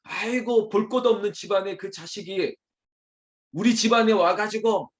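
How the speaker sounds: high-pitched in-law's complaint; disparaging. Acted. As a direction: sneer at the worthless in-law family. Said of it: "이거 폄하하는 거예요".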